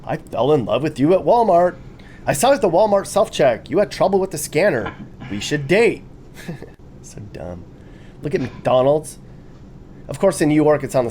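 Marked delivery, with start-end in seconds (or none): 0.0-6.0 lightly higher, mock-earnest love note; mock smitten shopper; hammed-up love note. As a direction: read it like a lovestruck goof. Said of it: "reading silly missed connection".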